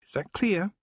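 high, pointed warning question; Tiffany laying down the law to the Feegles, stern; stern demand. Acted. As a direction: make sure they understand, no arguing. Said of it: "She looked sternly at the Feagles".

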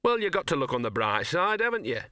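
lightly sneering dog voice; a touch of mock cheer. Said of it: "sneered the dog".

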